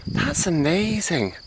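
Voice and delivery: overwhelmed by the view, gushing; real awe at the hilltop view; awestruck. Real, not acted. Taking in the view.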